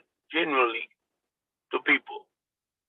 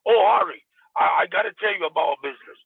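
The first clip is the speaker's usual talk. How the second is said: the wrong way, a salesy hello; pushy sales opener; 4 semitones higher than usual. Shown as a demonstration. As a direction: jump straight into selling the business. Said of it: "I cannot go".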